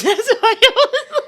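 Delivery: talking through loud laughter; laughing. Real, not acted. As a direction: get the words out between laughs. Both laughing at the phone.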